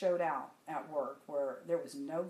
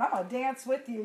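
louder, higher playful reply; imitated laughing glee; 5 semitones higher, 7 dB louder than usual. Colleague laughingly joining the hallway dance, retold with glee. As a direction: imitate a friend joining the fun. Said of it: "She's, like, laughing and going".

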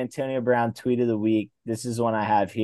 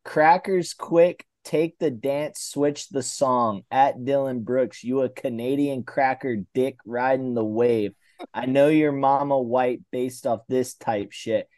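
reading a tweet aloud; 2 semitones higher, slower than usual. Retold or imitated. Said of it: "He quotes it and says".

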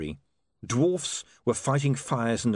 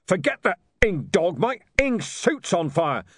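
higher, louder angry shout; furious high shout; 7 semitones higher, 4 dB louder than usual. Acted. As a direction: bellow in panic as the suit burns. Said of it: "shouted Mister Tulip".

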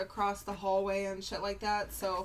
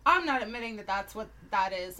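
emphatic refusal; 6 dB louder than usual. Retold or imitated. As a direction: slam the door on it. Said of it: "I would be the person to be like".

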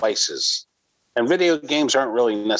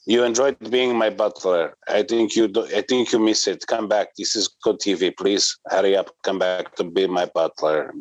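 mock Eastern European accent. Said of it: "you sounded more like the Iron Sheik there".

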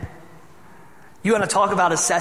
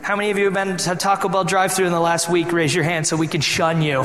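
normal talking voice

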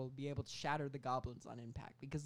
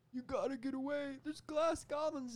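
frantic warning; 12 semitones higher, 4 dB louder than usual. Retold or imitated. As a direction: plead it like a frantic cartoon hero.

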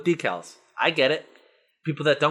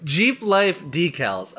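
mock reading; 4 semitones higher, much slower than usual. Real, not acted. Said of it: "reading sign mockingly".

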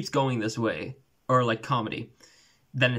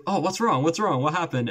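Basil Fawlty; 5 semitones higher than usual. Retold or imitated. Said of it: "he's like".

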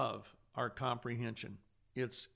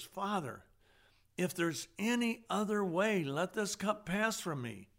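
anguished plea; 6 semitones higher than usual. Retold or imitated. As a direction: beg the Father to take the cup away. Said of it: "on his knees and he says".

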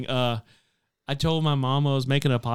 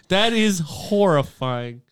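horrified; 5 semitones higher, 5 dB louder, slower than usual. Real, not acted. Disgusted reaction.

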